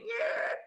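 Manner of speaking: quick voiceless whooshing noise; imitated whoosh. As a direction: mimic something zooming through the air. Imitates demon flying off.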